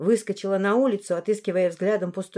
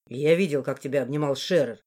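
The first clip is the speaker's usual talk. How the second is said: lowered man blurting it; low strained outburst; 6 semitones lower than usual. Acted. Morris blurts what he saw, low and strained. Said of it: "выпалил он с надрывом".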